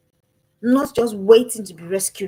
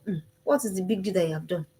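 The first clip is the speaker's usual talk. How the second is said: dismissive parent; 4 semitones lower, 5 dB quieter than usual. Retold or imitated. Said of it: "when you go".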